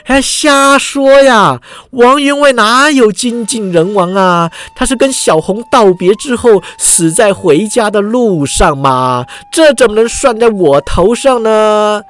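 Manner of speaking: hammed-up exasperated protest from the accused old man; flustered fury. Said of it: "重阳道人气急败坏地说".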